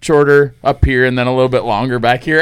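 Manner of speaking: a hint of a clueless customer at the barber; imitating Brent. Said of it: "And he's like".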